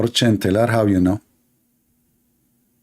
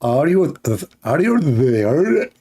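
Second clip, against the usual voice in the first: slow, stretched, exaggerated British attempt; bad English accent; much slower than usual. Shown as a demonstration. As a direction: overdo a British accent, stretching every word. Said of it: "I need to squeeze my throat".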